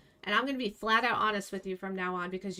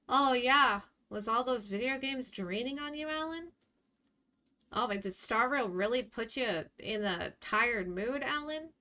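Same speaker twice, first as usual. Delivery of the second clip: sarcastic mocking. Real, not acted. Mocking Alan's excuses.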